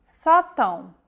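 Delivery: sótão stressed on SÓ with an open O, then a nasal ão; Portuguese sótão. Shown as a demonstration. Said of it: "The stressed vowel is marked by an acute accent".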